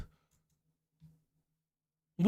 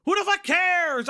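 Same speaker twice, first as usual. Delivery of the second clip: louder, higher who the fuck cares, fuck stressed; loud exasperated retort; 7 semitones higher, 3 dB louder than usual. Real, not acted. Streamer to the video, repeating his retort, exasperated and louder. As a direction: throw it back at the screen in disbelief.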